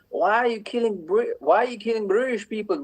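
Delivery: imitating a drunk Irishman's thick Irish accent. Drunk man confronting her in Saint Albans, in a mock thick Irish accent. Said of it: "with this strong, thick Irish accent".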